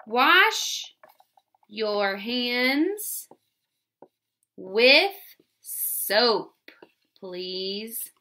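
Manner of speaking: each word spaced out while writing; slow word-by-word dictation. Shown as a demonstration. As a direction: say one word at a time. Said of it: "while I write mine too".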